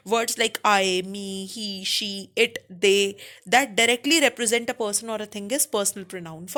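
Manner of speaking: very slow, word by word; slow dictation. Shown as a demonstration. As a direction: spell it out slowly for students. Teacher dictating definition slowly. (धीरे-धीरे बोलकर लिखवाना)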